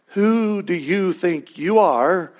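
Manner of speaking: slow, drawn-out scornful question; a hint of Michael Scott's snooty challenge; mock indignant challenge. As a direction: sneer it out slowly like an affronted boss. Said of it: "You gotta get the tone".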